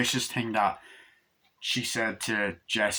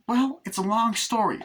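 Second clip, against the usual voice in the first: Chucky voice; 9 semitones higher than usual. Retold or imitated. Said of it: "It's like".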